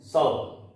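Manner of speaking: सल with the ल closed off, no vowel after; half l. Shown as a demonstration. Teacher isolates सल to show the half ल. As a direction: stop cleanly on the ल in सल. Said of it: "यहां ल को हम आधा बोलते हैं".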